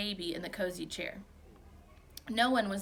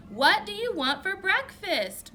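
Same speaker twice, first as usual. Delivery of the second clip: slow, high, drawn-out yell; 11 semitones higher, 7 dB louder, slower than usual. A narrator's reading. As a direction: stretch each word into a loud holler. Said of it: "Mom yelled".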